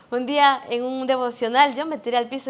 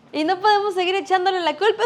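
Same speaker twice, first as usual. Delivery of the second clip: emphatic; 7 semitones higher, 5 dB louder than usual. Real, not acted. Preacher presses point to crowd.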